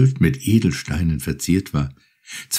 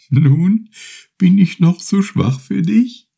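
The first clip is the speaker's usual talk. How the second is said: laughing; 12 semitones higher, 4 dB louder, slower than usual. A narrator's reading. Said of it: "fragte sie lachend".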